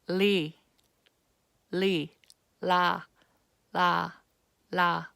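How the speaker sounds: "Li" and "la" with a firm press of the tongue behind the upper teeth, then retract; Korean ㄹ demo. Shown as a demonstration. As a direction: press and release on each syllable. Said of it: "My tongue presses firmly and it retracts".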